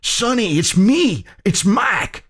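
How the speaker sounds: high, urgent calling out to his wife; desperate calling. Acted. Husband calling out to his wounded wife, urgent. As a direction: call her name, pleading.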